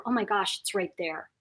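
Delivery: hushed, fearful whisper. Retold or imitated. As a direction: breathe it like it's lurking nearby. Voicing the lingering fear.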